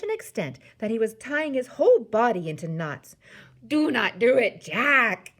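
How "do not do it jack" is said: loud, high desperate plea; screeched. A narrator's reading. Nightmare-gripped giant begging Jack to stop, screeching. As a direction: screech it out in protest. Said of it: "he screeched".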